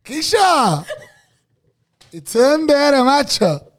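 loud, high mock Andalusian shout; Andalusian accent. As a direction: bellow it like a hammed-up Andalusian. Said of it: "te voy a decir Andalucía". (acento andaluz exagerado, a gritos)

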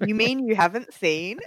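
incredulous, rising question; surprised. Acted. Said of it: "both go really, in a really bored voice".

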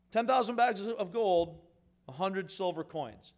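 slow, weighing each sum; slow contrast. Shown as a demonstration. Preacher contrasting the two debts for the congregation, slow emphasis. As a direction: set the two debts side by side, slowly. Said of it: "Not comparable".

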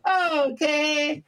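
high, stretched-out cartoon voice; Mister Meeseeks. Guest replying to commenters, high slow cartoon voice. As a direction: draw it out high and squeaky. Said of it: "You sound like Mister Meeseeks".

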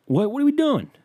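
high, loud exasperated yell. Retold or imitated. Comedian yelling high and loud at Jesus. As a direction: shriek the question up at God. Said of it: "keep yelling that".

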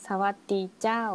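learner's careful Northern Thai greeting; lightly imitated Northern Thai lilt, เจ้า rising; Northern Thai accent. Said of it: "ต้องพูดยาวๆลากเสียงยาวๆ".

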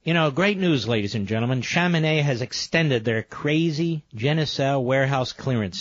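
upbeat radio ad read; infomercial. Acted. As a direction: pitch it like a sales spot. Host reads sponsor ad.

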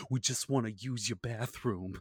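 lightly voiced pleading Mark Wahlberg; a hint of a scared man begging a plant; Mark Wahlberg impression. The GM doing Mark Wahlberg pleading with a plant, softly. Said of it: "that's my Mark Wahlberg".

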